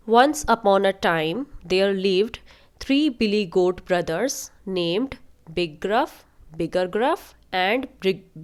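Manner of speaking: very slow, word-by-word storytelling; story read-aloud. A narrator's reading. Teacher reads goat story to weak readers, slow and careful. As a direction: read slowly so learners catch each word.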